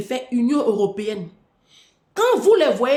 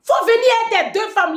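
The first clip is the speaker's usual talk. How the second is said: raised, higher and louder, hammering the point; loud rant; 10 semitones higher, 5 dB louder than usual. Real, not acted. Mocking a president who came with one wife, a loud high rant. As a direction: call him out loudly, pitched high.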